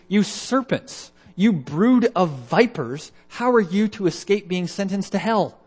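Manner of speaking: loud, high and slow fierce rebuke; Jesus denouncing the Pharisees, loud and slow; harsh condemnation. Retold or imitated. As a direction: spit out each insult slowly, high and loud. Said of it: "He was very harsh".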